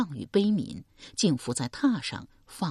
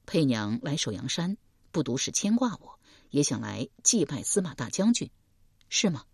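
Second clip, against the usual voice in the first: a lightly lowered calm man; man's voice Deng Yi. Acted. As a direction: speak as a steady young man.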